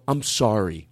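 earnest retold apology, pitch settled down. Guest pressing clerk's hand to apologise, contrite. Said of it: "press it between my hands and go".

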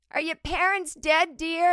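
high, loud pitying voice; old money woman patronizing the waitress; condescending rich lady. Retold or imitated. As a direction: ask it with fake sympathy. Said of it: "middle-aged woman".

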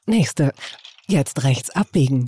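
tief und langsam, wie eine Navi-Ansage; Navi-Stimme. Pretend. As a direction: sprich jede Anweisung ruhig und gedehnt wie ein Navigationssystem. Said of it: "ich wollte immer schon auch sowas sagen wie". (ruhige, gedehnte Navi-Ansage)

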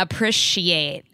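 "appreciate" slowly, short i in "prish"; appreciate as "a-prish-iate". Retold or imitated. Listener confirming his odd pronunciation, "appreciate" with a short-i prish. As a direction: echo "appreciate" as a-PRISH-ee-ate, stretched. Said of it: "Dana pointed out that I say appreciate".

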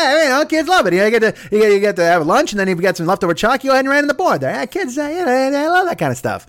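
Erwin Mainway. Retold or imitated. Comic doing the Dan Aykroyd huckster defending the lunch menu, brash. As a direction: sell the chalk ravioli like a shady salesman. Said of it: "and he's like".

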